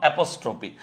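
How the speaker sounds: slow dictation for students. Shown as a demonstration. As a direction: Use of apostrophe spelled out slowly. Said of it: "Use of what?".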